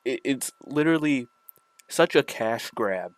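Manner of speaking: slight lisp from retainers in; lisping around dental retainers. Real, not acted. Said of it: "sorry for the, my lisp right now. I have my retainers in".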